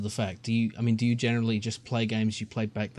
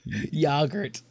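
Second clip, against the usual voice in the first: English accent. Shown as a demonstration. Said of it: "You can't even say it in an English accent".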